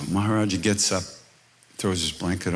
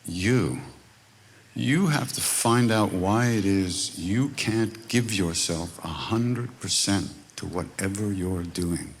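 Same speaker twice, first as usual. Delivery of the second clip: slow earnest advice; slower than usual. Retold or imitated. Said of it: "and he said".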